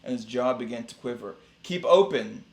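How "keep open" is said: high, loud command; yelled. A narrator's reading. Dentist orders his fox patient, yelling it high and loud. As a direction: raise pitch and volume to yell the order. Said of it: "yelled Doctor DeSoto".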